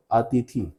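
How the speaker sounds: अतिथि with short final इ; correct pronunciation. Shown as a demonstration. Teacher giving the correct word, pronunciation demo. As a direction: finish अतिथि on a brief i. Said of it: "यहां पर सही है".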